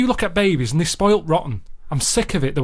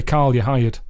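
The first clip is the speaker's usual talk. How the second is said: lightly imitated tycoon, a bit lower; Alan Sugar; 4 semitones lower, slower than usual. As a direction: scoff at them like a blunt business boss. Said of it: "He'd say".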